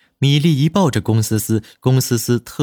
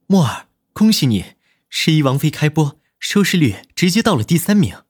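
higher-pitched, genial congratulations; mild and smiling, pitched up; gentle, smiling voice; 5 semitones higher than usual. A narrator's reading. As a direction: congratulate them with a smile in the voice. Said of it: "温润带笑的声音".

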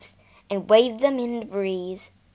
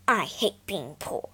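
grumbling; 3 semitones lower than usual. Acted. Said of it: "grumbled Peter".

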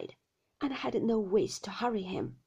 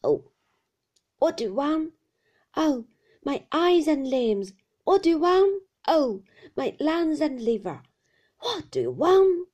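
put-on loud, high old man's repeated wail; ranting old shopkeeper, high and loud; fierce whine; 5 semitones higher, 10 dB louder than usual. A narrator's reading. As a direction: whine each phrase in the same fierce singsong.

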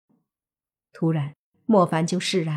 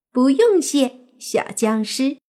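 put-on playful fox-demon girl; 7 semitones higher, slower than usual. Fox girl answers the zombie's thanks, playful and high. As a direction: tease him as a cute little fox spirit.

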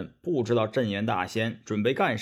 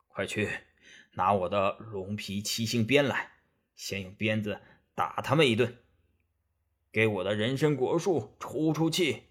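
low, softer voice of a stern master; stern immortal master giving orders; 3 semitones lower, 5 dB quieter than usual. Acted. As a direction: give orders as an offended old immortal, lightly voiced.

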